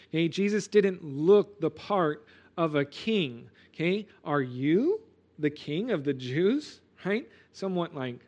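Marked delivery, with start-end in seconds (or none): 4.3-6.8 slow, incredulous question with YOU stressed; shock and surprise. Retold or imitated. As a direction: ask it as if you can't believe your eyes. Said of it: "Pilate's question was one of shock and, and surprise".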